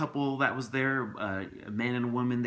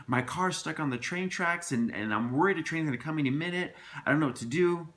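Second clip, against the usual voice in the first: higher-pitched, mildly anxious explanation; a touch of panic, pitched up; retold worried plea; 6 semitones higher than usual. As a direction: act out appealing to strangers for help. Retells telling strangers of his emergency.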